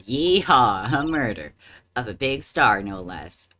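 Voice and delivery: loud whooping southern cowgirl cheer; southern yeehaw. Acted. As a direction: shout it like an excited southern gal. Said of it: "That southern accent can only mean".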